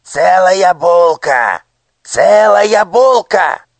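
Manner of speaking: very high, loud, slow shriek of «Целая булка». A narrator's reading. Minister shrieks in triumph at the boy. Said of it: "вскрикнул министр".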